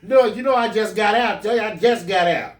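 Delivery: high, loud, laughing; hammed-up flustered denial; mock brush-off. Teacher shooing away the woman, high flustered and loud.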